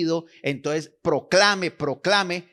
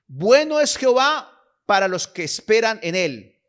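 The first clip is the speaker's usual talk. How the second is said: scripture reading; 2 semitones higher, 3 dB louder than usual. Acted. Preacher reads Lamentations to the congregation, solemn proclaiming. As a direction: proclaim the verses like reading from the pulpit. Reads Bible passage aloud.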